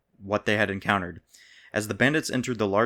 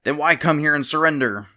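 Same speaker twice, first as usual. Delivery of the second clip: higher, louder probing question; questioning king; 6 semitones higher, 6 dB louder than usual. A narrator's reading. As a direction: challenge him sharply. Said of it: "the king questioned".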